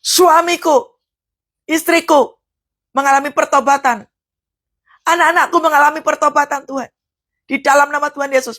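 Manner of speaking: earnest demo of a believing prayer; right-way fervent prayer. Shown as a demonstration. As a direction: pray it as the model of true faith. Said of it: "Yang benar itu adalah".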